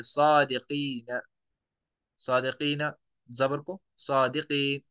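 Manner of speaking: long drawn-out ee in सादिकीन; pausal recitation. Shown as a demonstration. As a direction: stretch the ee of सादिकीन, slow and measured. Teacher demonstrates pausal recitation.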